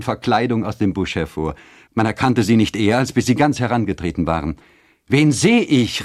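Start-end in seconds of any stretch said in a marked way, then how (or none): 5.1-6.0 high, loud exclaimed question; raised, amazed call; astonished cry. A narrator's reading. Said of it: "riefen die Mütter".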